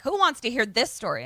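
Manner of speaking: lightly imitated rude interruption; mock rude. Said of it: "being really rude".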